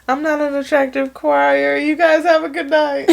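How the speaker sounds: mock crying through an award speech; a singer crying. Retelling a singer's acceptance speech, lightly imitating her tearful voice. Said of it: "She was like".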